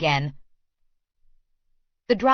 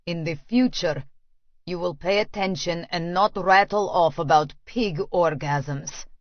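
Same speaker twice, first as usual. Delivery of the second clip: stern Russian man; 3 semitones lower than usual. Acted. Lecturing her in car.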